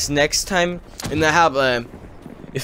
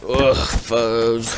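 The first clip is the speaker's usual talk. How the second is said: exasperated; 2 semitones lower than usual. Real, not acted. Exasperated after telling the incident.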